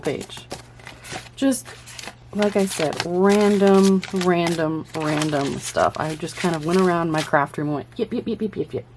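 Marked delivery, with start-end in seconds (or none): 3.0-8.9 hyper and jittery; buzzing with caffeine energy; too much caffeine. Real, not acted. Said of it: "The caffeine has kicked in, can you tell?".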